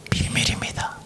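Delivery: soft secret whisper. Acted. Pastor whispering to the church that this is the secret.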